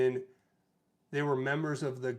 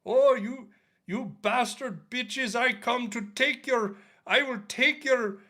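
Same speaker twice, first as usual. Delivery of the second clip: high, loud fake redneck accent sliding into Indian; a redneck accent attempt that ends up Indian; mock redneck accent; 10 semitones higher, 6 dB louder than usual. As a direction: ham up a threatening caller in a botched redneck accent. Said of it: "would it be a redneck accent or a Somalian trying to do a redneck accent".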